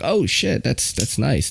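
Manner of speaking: imitating someone pleasantly impressed, high start then settling; retold impressed murmur, starting high; impressed reaction, imitated. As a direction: act out a soft "oh" of approval. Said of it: "She was like".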